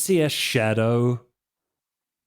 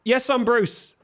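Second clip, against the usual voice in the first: character voice; 10 semitones higher than usual. Acted. GM voices Bruce.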